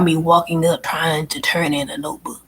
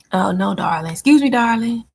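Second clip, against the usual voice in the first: casual endearment. Shown as a demonstration. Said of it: "That's just how I speak".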